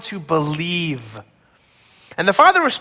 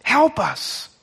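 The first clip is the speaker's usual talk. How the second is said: pleading, voice close to tears; desperate tearful plea; 3 semitones higher, slower than usual. Acted. Father begging Jesus to save his son, tearful plea. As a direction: beg for help through tears. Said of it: "a desperate plea through tears".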